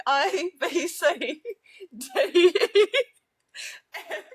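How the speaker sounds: giggly mock-British alphabet recital; badly faked British accent, breaking into laughter; attempted British accent. Shown as a demonstration. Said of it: "Is this British?".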